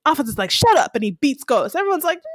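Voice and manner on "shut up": sudden high, loud snap; mock shout. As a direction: cut him off hard. Alphonse snaps in retold scene.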